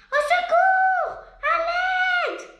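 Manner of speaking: high, loud, drawn-out panicked shouts; yelling for help. Acted. Caca Moustique to anyone near, slow, loud cries for help. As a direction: stretch out a desperate cry for help. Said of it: "hurle Caca Moustique".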